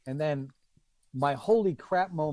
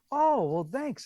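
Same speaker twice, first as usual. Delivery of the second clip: retold star's reply; 10 semitones higher, slower than usual.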